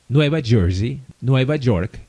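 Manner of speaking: put-on Spanish-accented place names, York starting with a j sound; Latin American pronunciation. Doctor listing US cities she visited, Latin accent. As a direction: lightly imitate a Latin saying Nueva Jersey, Nueva York. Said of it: "they always say Nueva York".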